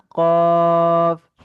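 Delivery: "কফ" with its vowel drawn out for four alif; long chanted "কফ"; held madd. Shown as a demonstration. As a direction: stretch "কফ" in a slow recitation tone. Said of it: "চার আলিফ কিভাবে টেনে বলবো".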